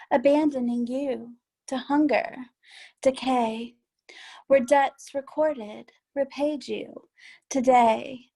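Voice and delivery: deliberate, spaced-out verse recital; poem reading. Acted. Poet reading the title poem to listeners, poem reading. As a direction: give each line its own beat, with pauses between.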